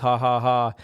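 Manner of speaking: spoken, deliberately fake ha-ha-ha; mock laugh. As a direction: imitate people laughing it off, half-hearted. Mimicking people joking about being tortured.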